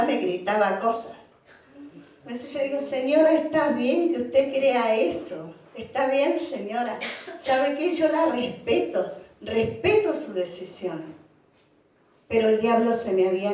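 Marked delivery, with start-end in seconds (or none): 2.8-11.0 calm reassuring. Retold or imitated. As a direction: soothe her, take your time. Calming the angry shouting lady.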